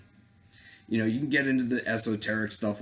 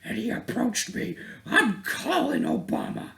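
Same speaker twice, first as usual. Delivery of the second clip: shrieking girl mockery; 13 semitones higher, slower than usual. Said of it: "some girl's like".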